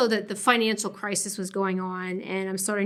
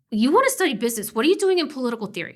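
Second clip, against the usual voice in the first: put-on higher, fast Brooklyn-accented quip; teasing Brooklyn accent, higher and quick; 4 semitones higher, 4 dB louder, faster than usual. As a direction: rattle it off like a Brooklyn professor. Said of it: "She's got this delightful accent".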